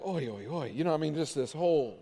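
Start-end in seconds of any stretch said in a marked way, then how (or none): 0.1-0.7 low, soft weary oi; weary groaning. Acted. Moses worn out by endless disputes, low weary groan. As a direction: sigh it out low, overwhelmed by it all. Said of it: "Moses is like".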